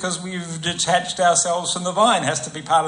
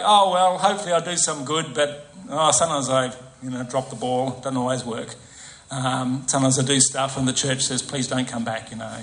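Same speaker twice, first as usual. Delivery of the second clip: mock half-hearted; 3 semitones lower than usual. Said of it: "he doesn't talk like that".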